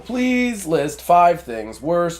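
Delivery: slow, stiff robot readout. Acted. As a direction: intone it like a machine. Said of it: "robot status readout".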